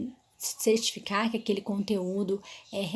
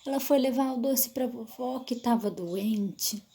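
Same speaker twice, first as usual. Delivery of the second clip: expressive storytelling; 2 semitones higher, slower than usual. Shown as a demonstration. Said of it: "mexe com a expressão".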